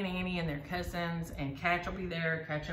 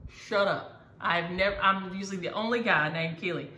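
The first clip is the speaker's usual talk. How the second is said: amazed retelling; 6 dB louder than usual. Retold or imitated. Other Keely amazed, retold.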